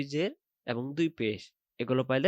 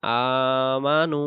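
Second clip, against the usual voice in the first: loud, very slow chanted recitation; slow Quran recitation; 3 dB louder, much slower than usual. Shown as a demonstration. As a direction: recite it drawn out like tajweed practice. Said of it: "আবার".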